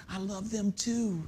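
tender and hushed, like a whisper; soft, slow Lord. Retold or imitated. The Lord answers an upset believer, softly and slowly. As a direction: say I love them too softly and slowly. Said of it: "the Lord whispers".

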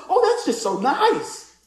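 high, drawn-out gushing; swooping, delighted squeal of thanks; excited lady. Retold or imitated. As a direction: imitate a thrilled lady, slow and high. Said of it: "she was so excited".

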